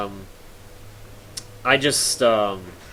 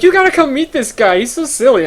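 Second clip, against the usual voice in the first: high, loud giggly teller voice; excited bank teller; 12 semitones higher, 9 dB louder than usual. Retold or imitated. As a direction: mimic the amused teller calling colleagues over. Laughing teller voiced in story.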